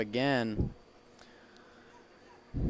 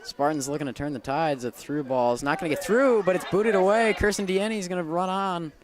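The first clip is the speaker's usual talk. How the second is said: raised pitch, urgent live call; excited play-by-play; 5 semitones higher, 5 dB louder than usual. Real, not acted. Announcer calling a through ball booted away, excited. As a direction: climb with the attack, then ease slightly.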